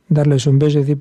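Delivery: ordinary talk, nothing marked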